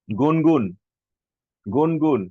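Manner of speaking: calling out. Real, not acted. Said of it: "calling student name".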